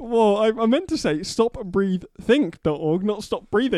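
laughing correction. Real, not acted.

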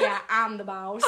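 imitating a boy's country accent with a laugh. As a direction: mimic a little boss in country twang. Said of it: "walk around and talk in a country accent".

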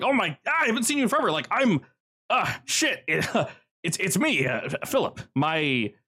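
high, gushing reunion voice, breaking into laughter; overjoyed to see an old face again; excited Philip. Acted. Philip excitedly greets old acquaintance.

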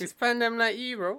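high, loud put-on Scouse accent, through the nose; nasal Scouse voice. Friend teasing his mate on a call, in nasal Scouse voice. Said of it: "Why are you speaking so nas-, na-, nasally for?".

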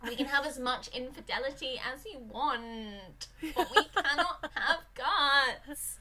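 prim, slow censor voice; mock stern censors. Podcaster mocking prudish censors, slow and prim. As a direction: lay down the rule like a prudish censor. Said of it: "the censors were like".

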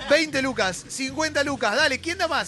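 auctioneer. Pretend. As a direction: bid it up like an auctioneer. Auction bidding for the glass.

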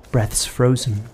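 ordinary delivery

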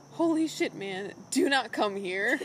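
mild mock yell at a wolf; retold yell. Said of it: "yells at the wolf".

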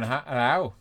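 put-on rough stab at a Belfast accent; imitated Belfast greeting, badly faked; attempted Belfast accent. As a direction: have a half-hearted go at Belfast. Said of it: "like, a really Belfast accent".

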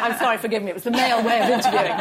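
amused apology over laughter; laughing apology. Real, not acted. Interviewer excuses his interruption to the panel, laughing. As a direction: own up to it with a laugh.

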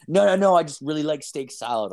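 imitated protest, insisting; defensive. Date called out on her order, imitated as defensive. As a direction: play her mildly on the defensive. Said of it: "then she got all defensive".

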